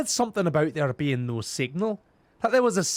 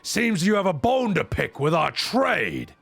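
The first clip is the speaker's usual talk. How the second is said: a salty old pirate, lightly voiced; hammed-up pirate storyteller; gruff pirate. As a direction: growl the lines like a sea dog. Reads pirate NPC dialogue aloud.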